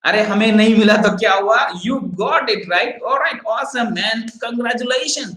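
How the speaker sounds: high-pitched happy congratulations; real leader cheering. Acted. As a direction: cheer on a teammate who won. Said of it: "here the real leader is".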